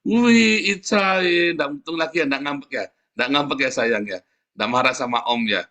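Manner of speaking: put-on coaxing child.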